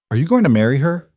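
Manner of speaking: put-on a blunt young girl asking; curious little girl. A narrator's reading. Daughter asks point blank.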